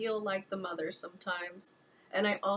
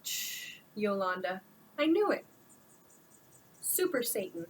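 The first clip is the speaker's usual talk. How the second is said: unfiltered thought. Acted. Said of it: "Unfiltered thought".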